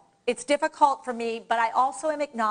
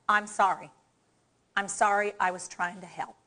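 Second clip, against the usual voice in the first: softly apologetic, sinking lower at the end; sincere apology; 4 semitones lower, 3 dB quieter than usual. Shown as a demonstration. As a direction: say sorry like you mean it. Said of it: "Sound like you mean it".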